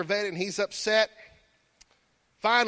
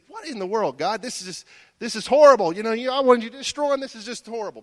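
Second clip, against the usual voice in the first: mildly indignant Jonah; 3 semitones higher, 6 dB louder, faster than usual. Acted. Angry Jonah complaining to God.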